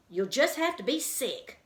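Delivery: a touch of the brisk bird, no sympathy. A narrator's reading. Margalo answering Stuart's fear of sickness, lightly brisk.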